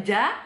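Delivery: "ja" as a fully voiced Indonesian J; wrong, plain J. Shown as a demonstration. Teacher contrasting what it is not, plain J. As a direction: buzz "ja" fully, no C in it. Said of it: "Beda kan?".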